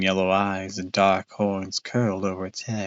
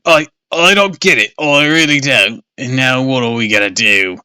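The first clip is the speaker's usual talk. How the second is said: louder, higher panicked rush; 3 semitones higher, 7 dB louder than usual. Acted. Father panicking after his car exploded. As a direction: fall apart in panic. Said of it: "Sounded really panicked".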